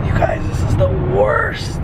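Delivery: slow voiceless whisper, voice gone; raspy whisper. Real, not acted. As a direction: breathe it out, no voice left. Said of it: "I have to whisper everything".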